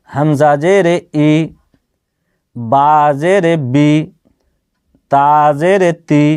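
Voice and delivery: measured Quran-primer vowel drill; teacher modelling syllables evenly, pausing after each; reading demonstration. Shown as a demonstration. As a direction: spell each letter with "জেরে", then its i sound. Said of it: "কীভাবে আপনারা পড়বেন দেখেন আমি বলি".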